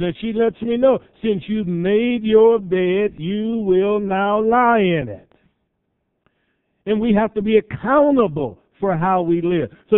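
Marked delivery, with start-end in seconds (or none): 1.2-5.3 slow, drawn-out pronouncement, raised pitch; stern motherly retort. Retold or imitated. Mother answering her grown son's independence, sternly. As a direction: lay down the law slowly, word by word.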